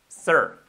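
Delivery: "sir" pronounced "sər", vowel inside the R; sonido "er" inglés. Shown as a demonstration. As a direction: model "sir" alone, stressed and falling. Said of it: "Suena igual, sir". ("sir" con el sonido inglés "er")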